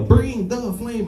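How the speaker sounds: put-on high, slow call of a white girl; mock white girl yell. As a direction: pitch it up like an eager protester. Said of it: "white girl behind me yell".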